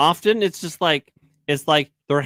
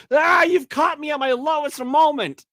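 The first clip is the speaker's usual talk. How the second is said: put-on dramatic baby voice; 13 semitones higher than usual. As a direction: ham up a caught villain's lament. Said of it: "he was like".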